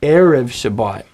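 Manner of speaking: Erev with a strong E and light rev; stress on first syllable. Shown as a demonstration. Teacher letting students hear it, Erev stressed on E. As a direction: punch the opening syllable of Erev. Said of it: "the accent is on the first syllable".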